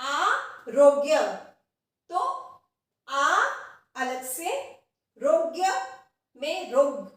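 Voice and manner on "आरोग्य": आरोग्य spoken slowly, ग्य joined after रो; drawn-out careful आरोग्य; slow demo. Shown as a demonstration. Teacher slowly models आरोग्य. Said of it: "वो भी इसी प्रकार होगा".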